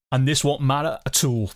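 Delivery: badly faked Scottish accent; terrible Scottish accent. Streamer consoling Scottish viewers over the football, bad Scottish accent. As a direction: attempt a Scottish accent and miss. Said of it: "That was a terrible Scottish, Scottish accent".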